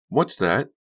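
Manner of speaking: put-on high, eager kid question; curious child asking; little boy voice.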